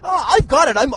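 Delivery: ordinary talk, nothing marked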